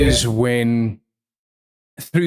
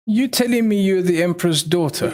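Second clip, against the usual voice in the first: surprised Silas; 6 semitones higher, faster than usual. Acted. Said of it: "Silas looks at her and he's like".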